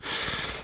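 short unvoiced scoffing snort; derisive snort. A narrator's reading. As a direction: snort through the nose. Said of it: "Colonel Berry snorted".

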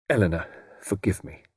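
breathy whispered plea; pleading whisper. Acted. Portal begging his wife Eleanor's forgiveness, whispering.

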